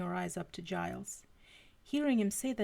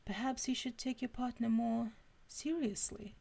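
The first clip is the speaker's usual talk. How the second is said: slightly higher, lightly British voice; Giles's British accent; 4 semitones higher than usual. Acted. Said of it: "I read that in Giles's accent".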